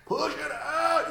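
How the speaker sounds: high, slow mock dog voice; voicing the dog. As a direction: squeak it out slowly as the dog. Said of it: "the dog's like".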